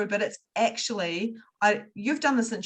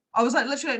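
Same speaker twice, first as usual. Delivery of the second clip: usual speaking voice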